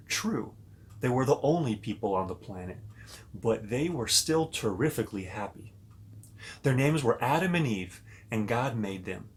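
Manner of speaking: put-on storybook narration for little kids; reading to children. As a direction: read it like a bedtime story to children. Reads Bible story to kids.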